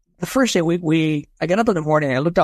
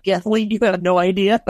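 higher, through a chuckle; tickled, laughing comeback; amused retold reply; 5 semitones higher than usual. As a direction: imitate an excited reply, half laughing. Retold excited reply, laughing around it.

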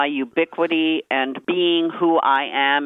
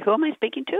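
laughing; 13 semitones higher, much faster than usual. Real, not acted. Mock not knowing the host.

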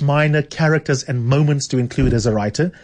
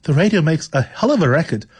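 put-on a weak, higher try at an Irish accent; attempted Irish accent; 4 semitones higher than usual. Host reading the Irish landlady to her new lodger, failed Irish accent. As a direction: voice the Irish landlady and admit the accent barely lands. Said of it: "You can see I can't do an Irish accent".

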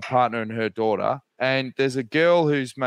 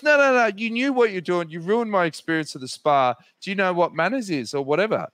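mock huffy girl; 5 semitones higher than usual. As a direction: mimic the girl's indignant scolding. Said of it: "she goes".

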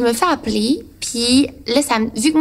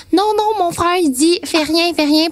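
urgent warning; 7 semitones higher, slower than usual. Retold or imitated. Retold urgent warning from friend.

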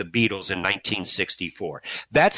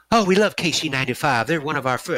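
a hint of the rock star's higher voice, friendly and eager; imitating a rock singer; 3 semitones higher, faster than usual. The fan imitates his idol greeting the radio station, mildly higher. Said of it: "that's kinda how he talks".

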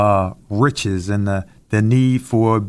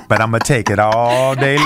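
playful shout. Real, not acted. Laughing back at teasing.

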